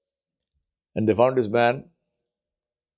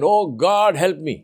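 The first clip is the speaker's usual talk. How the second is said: pleading cry; 4 semitones higher, slower than usual. Acted. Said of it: "So he screams again".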